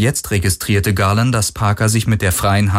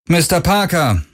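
without warmth; 9 semitones higher than usual. A narrator's reading. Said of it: "rief Galen ohne große Herzlichkeit".

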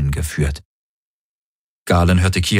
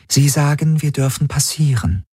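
translating alien voice; 8 semitones higher than usual. Acted. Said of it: "übersetzte die Schattenhelix".

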